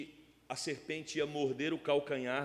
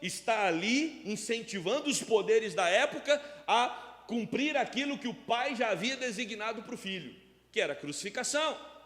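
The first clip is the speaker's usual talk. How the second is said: raised, insistent pulpit delivery; forceful preaching; 8 semitones higher, 6 dB louder than usual. Real, not acted. Pastor explaining the crowd fulfilled God's plan, forceful preaching. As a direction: drive the point home, voice lifted.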